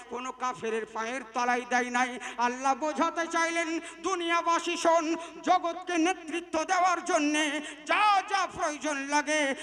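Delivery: loud, driving sermon delivery; preaching at full force. Acted. Preacher exhorting the Muslim crowd, loud and driving. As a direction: thunder it out to the crowd.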